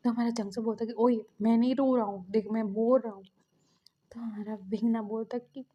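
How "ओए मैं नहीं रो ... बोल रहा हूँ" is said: louder, indignant protest; defensive denial. Retold or imitated. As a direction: deny it hotly, acting a teased brother. Brother denies that he is crying. (ज़ोर देकर इनकार)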